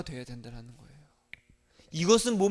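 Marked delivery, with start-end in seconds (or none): 0.0-1.1 sudden hushed whisper. Real, not acted. Pastor urging true faith, whispered. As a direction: drop to a whisper to draw them in.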